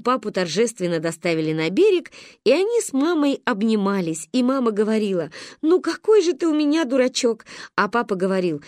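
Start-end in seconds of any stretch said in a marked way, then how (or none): 5.6-7.5 higher, fond teasing; affectionate scolding. A narrator's reading. Wife hugging rescued husband, affectionate scolding. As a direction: chide lovingly in a higher voice.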